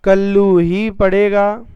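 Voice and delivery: ही slow and stressed; emphatic example. Shown as a demonstration. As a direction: lean on ही slowly. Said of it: "उदाहरण लिख लीजिए". ("ही" पर धीमा ज़ोर)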